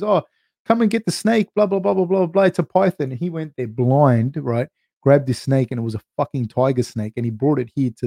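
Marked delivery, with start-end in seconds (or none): 0.0-3.1 mock old lady. Old lady calls about snake.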